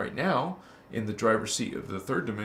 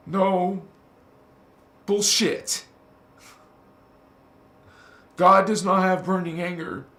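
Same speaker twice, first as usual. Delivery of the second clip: loud, high indignant protest; indignant shout; 6 semitones higher, 6 dB louder than usual. Real, not acted. Preacher rejecting an angry God, loud and high. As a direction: refuse it outright, voice raised.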